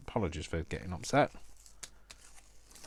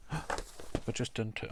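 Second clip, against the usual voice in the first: gasp; 4 semitones higher, much slower than usual. Real, not acted. Mistake on the card.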